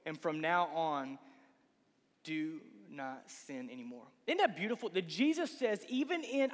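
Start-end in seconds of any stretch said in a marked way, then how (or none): 0.1-4.1 tender command. Retold or imitated. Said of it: "Jesus said".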